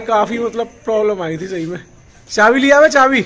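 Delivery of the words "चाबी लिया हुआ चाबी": calling out. Real, not acted. Friend calls out to his buddy about the key, loud call. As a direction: shout across for the key.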